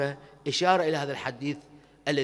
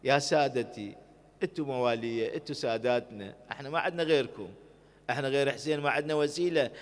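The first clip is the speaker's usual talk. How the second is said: humble address. Acted. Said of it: "وانت بحضرة الإمام".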